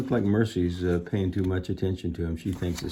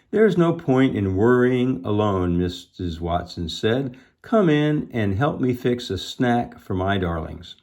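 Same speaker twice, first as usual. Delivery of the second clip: animated chapter reading; children's story narration; 3 semitones higher, 5 dB louder than usual. A narrator's reading. Missus Watson inviting Eugenia inside, animated storytelling. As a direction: read clearly with lifted dialogue.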